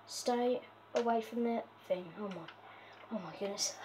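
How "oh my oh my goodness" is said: breaking into quiet laughter; laughing. Real, not acted. Watching the villager go mad, soft laughing. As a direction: let the words dissolve into a soft laugh.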